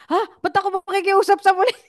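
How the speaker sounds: high, disbelieving retort; incredulous. Retold or imitated. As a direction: ask it as if the idea is absurd. Retells her incredulous reply. (gulat na gulat na tanong, mataas ang boses)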